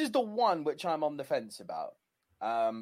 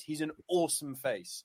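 usual speaking voice

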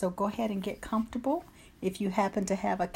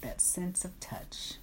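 guided meditation. Acted. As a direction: calmly guide them through breaths, easing into whispers. Leads a guided breathing meditation.

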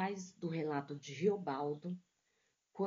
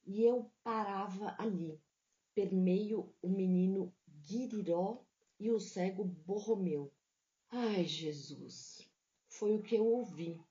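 literary reading. A narrator's reading. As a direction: read it like a mournful novel passage. Literary reading of Grande Sertão.

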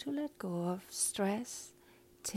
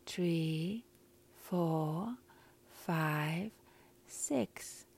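slow breath counting; much slower than usual. Shown as a demonstration. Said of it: "So I will count to a four".

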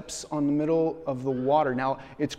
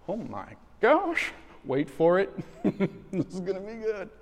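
gleeful disciples; 7 semitones higher than usual. Retold or imitated. Disciples gleefully watching Peter.

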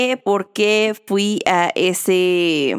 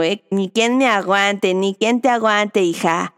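ordinary talk

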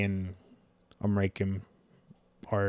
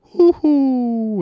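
much higher, louder hammed-up Mario yelp; Mario hoo-hoo; 12 dB louder than usual. Showing viewers Mario's other game sound, high hammed-up yelp. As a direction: squeak it out like the plumber jumping. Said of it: "what's the other one?".

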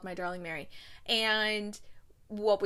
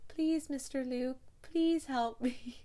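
slow, whiny mock plea in a little-girl voice; pleading little girl; 5 semitones higher, slower than usual. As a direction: beg like a kid putting it on. Hannah begs Luke in a child voice.

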